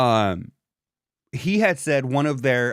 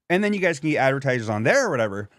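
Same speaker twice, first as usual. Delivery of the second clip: talking through a mouthful; mouth full; faster than usual. Real, not acted. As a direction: speak around food in mouth. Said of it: "I had something in my mouth".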